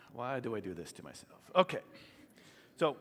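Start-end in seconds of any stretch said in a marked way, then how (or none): 0.0-1.4 laughing. Real, not acted. Laughing at himself.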